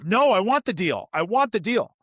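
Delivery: put-on whiny, determined child refusing to give up; insistent toddler. Son mid-meltdown refusing to drop the deal, high insistent whine. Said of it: "And he goes".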